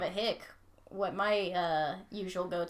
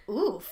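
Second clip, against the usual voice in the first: oof; 5 dB louder than usual. Pretend. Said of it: "they'll go".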